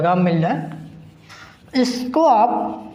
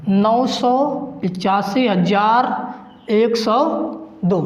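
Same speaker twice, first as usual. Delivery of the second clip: slow and deliberate; much slower than usual. Shown as a demonstration. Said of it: "अब आप देखिए".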